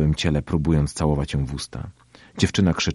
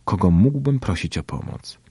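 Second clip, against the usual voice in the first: ordinary delivery, nothing marked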